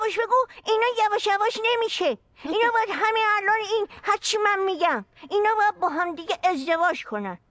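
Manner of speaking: mock mother ordering a wedding; insistent mother. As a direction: push it like a pushy matchmaking mom. Mother figure insisting on marriage.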